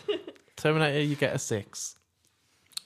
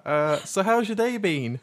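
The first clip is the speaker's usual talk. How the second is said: put-on English accent. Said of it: "That's English".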